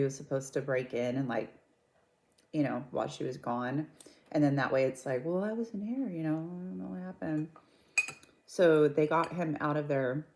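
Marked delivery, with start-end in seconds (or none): 5.2-7.5 mock-innocent, higher and softer; feigned innocence. Wife offering her alibi for being away, feigned innocence. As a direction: play the know-nothing alibi lightly. Voices the wife's planned alibi.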